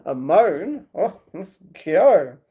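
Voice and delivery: usual speaking voice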